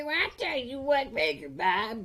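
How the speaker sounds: high, loud hammed-up punchline; sing-song pun voice. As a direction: ham up the puns with a high voice. Punny punchline, mock sing-song.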